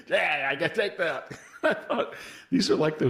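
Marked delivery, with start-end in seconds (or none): 0.1-1.3 higher voice, laughing through a boast; laughing mock bravado. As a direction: brag while cracking up. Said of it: "he makes it".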